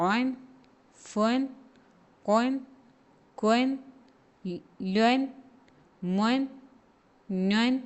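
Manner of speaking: each Arabic letter sounded with a clear "un" ending, one by one; tanween dammun recitation. Shown as a demonstration. Teacher reciting letters with double damma to students. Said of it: "അതെങ്ങനെ read ചെയ്യേണ്ടത് നോക്കാം".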